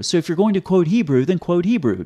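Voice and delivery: frustrated correction; exasperated. Real, not acted. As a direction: insist on "then quote Hebrew". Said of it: "exasperated repeated point".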